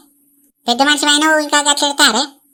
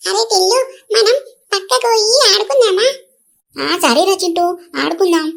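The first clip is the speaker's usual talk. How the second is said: lightly voiced village kids, a bit higher; little boys; 3 semitones higher than usual. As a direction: play two small boys chatting eagerly. Boys Chintu and Tillu talk. (కొంచెం పై స్వరంలో చిన్న పిల్లల గొంతు)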